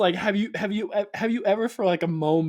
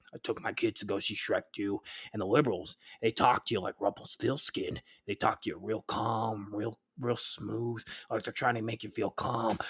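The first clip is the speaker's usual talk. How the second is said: mock pundit voice; 5 semitones lower, 5 dB quieter than usual. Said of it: "his voice has, like, such a tone".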